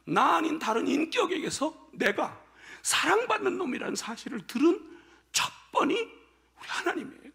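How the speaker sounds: ordinary talk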